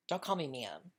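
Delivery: normal talking voice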